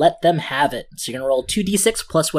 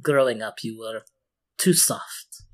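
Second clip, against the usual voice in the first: smiling voice; 4 dB quieter than usual. Acted. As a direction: speak with a proud smile. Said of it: "you can hear the smile in her voice".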